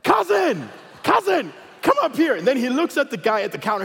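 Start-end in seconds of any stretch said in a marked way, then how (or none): 0.0-2.3 very high hollering call; mock scream, each call ringing out; imitated screaming. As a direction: yell across a crowded airport. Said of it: "he starts screaming over the whole airport".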